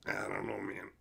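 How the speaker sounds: unvoiced soft whisper. Real, not acted. Streamer answering chat in a whisper. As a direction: breathe it out under your voice.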